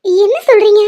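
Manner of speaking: tearful shock. Acted. Persi to the doctor on hearing of Swetha's illness, tearful. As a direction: plead for an explanation, close to tears. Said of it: "please அழாத பெருசி".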